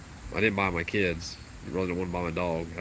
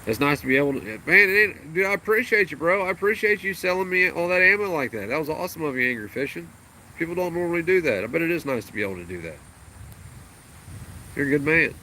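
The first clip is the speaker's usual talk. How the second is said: much higher, louder gushing thanks; excited thanks; 8 semitones higher, 5 dB louder than usual. Real, not acted. Streamer thanking Angry Fishing for the ammo, excited and loud. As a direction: gush your gratitude.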